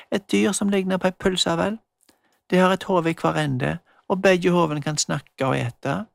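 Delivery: put-on a girl explaining, a touch pleased with herself; lightly voiced girl Magda. Magda voiced explaining her wish.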